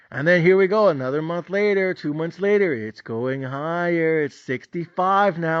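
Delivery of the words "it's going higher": drawn-out teasing; mock-gloating buddy; slow smug taunt. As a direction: stretch it out smugly. Friend's hype retold.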